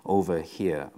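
lightly imitated Southern American prison guard; old Southern American accent. Mean guard calling down death row, light old Southern American accent. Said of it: "kind of a old Southern, uh, American accent".

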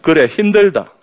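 loud, high southern-dialect blurt; southern Korean regional speech. Retold or imitated. Husband from the south answering his sick wife, southern accent. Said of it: "아래쪽에서 오신 분들이 이렇게 이야기합니다".

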